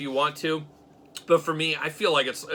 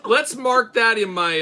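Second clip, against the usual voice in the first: laughing; 8 semitones higher, 8 dB louder, slower than usual. Real, not acted.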